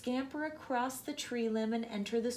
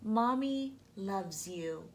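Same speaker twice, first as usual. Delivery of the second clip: tender murmur; 3 semitones lower, slower than usual. Acted. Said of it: "just press your hand ... and think".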